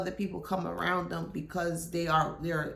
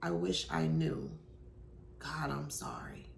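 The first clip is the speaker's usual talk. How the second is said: remorseful confession, imitated; 3 semitones lower, 8 dB quieter than usual. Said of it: "Just like that".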